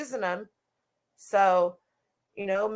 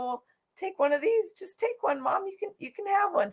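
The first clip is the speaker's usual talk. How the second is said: eager insistent offer; 10 semitones higher, 3 dB quieter than usual. Retold or imitated. Offering mom clothespins, retold.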